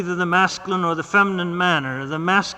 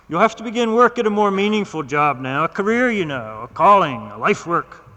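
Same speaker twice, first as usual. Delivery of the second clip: a lightly voiced stern doctor, raised pitch; 3 semitones higher, 3 dB louder than usual. Doctor lecturing his patient, lightly voiced stern.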